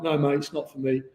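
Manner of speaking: jokey Cockney bloke brushing it off; Cockney accent. Acted. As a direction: put on a light Cockney accent. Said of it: "they're talking a Cockney accent".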